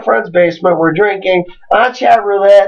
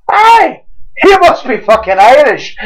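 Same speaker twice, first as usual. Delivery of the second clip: mock excited cheer; 4 semitones higher, 3 dB louder, slower than usual. Acts out delighted Irish drinkers.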